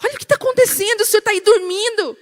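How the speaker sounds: high, loud, urgent plea; desperate disciple. Acted. Disciple waking Jesus in the storm, desperate. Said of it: "os discípulos desesperados".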